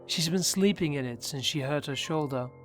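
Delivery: usual speaking voice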